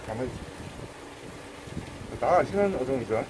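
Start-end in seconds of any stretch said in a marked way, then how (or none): 0.1-2.2 hushed whisper to the fish. Real, not acted. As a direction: soothe it in a slow whisper. Soothing the wriggling fish.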